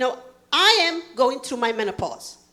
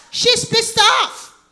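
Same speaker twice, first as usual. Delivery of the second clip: loud, high, drawn-out shout; exasperated shout; 10 semitones higher, 6 dB louder, much slower than usual. Acted. Comedian telling the crowd of her frustration, exasperated shout. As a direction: stretch it out and belt it high.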